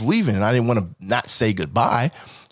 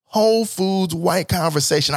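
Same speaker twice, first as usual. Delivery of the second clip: slow mock sob; drawn-out fake lament; slow hammed-up wail; mock crying; 8 semitones higher than usual. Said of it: "I was so mad".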